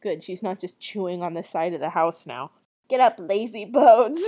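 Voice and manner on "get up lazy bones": put-on loud try at an old witch's voice; lightly voiced crabby old woman; old lady witch. Witch rousing Gretel, loud old lady voice. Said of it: "my old lady voice is gone".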